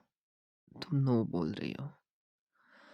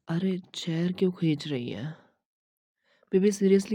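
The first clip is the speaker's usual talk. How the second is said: put-on loud, high startled "baby, seriously"; startled protest; 5 semitones higher, 5 dB louder than usual. Boyfriend startled as girlfriend pulls his chair, loud protest. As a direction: caught off guard and raising his voice.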